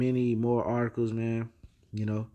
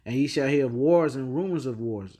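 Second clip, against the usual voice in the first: reading the verse out with a slight lift; scripture reading; 2 semitones higher, 4 dB louder than usual. Acted. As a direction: proclaim the verse like reading from the pulpit. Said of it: "in verse six".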